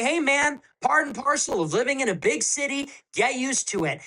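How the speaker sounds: a hint of a dismissive politician shrugging it off; mock official voice. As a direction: brush it off like a smug bureaucrat. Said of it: "They say".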